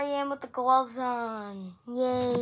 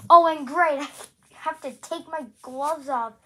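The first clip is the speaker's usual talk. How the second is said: sarcastic; 4 semitones higher, 11 dB louder than usual. Real, not acted. Gloves must come off again.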